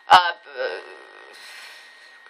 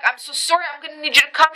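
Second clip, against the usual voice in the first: apologetic plea; 6 semitones higher, faster than usual. Retold or imitated. Retold apologetic plea on phone.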